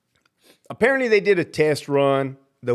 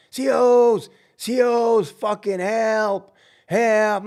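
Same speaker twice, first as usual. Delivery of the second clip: higher, louder cries for the guards; yelling for help; 6 semitones higher, 3 dB louder, much slower than usual. Pretend. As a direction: call out to the guards in panic. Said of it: "I'm gonna start yelling".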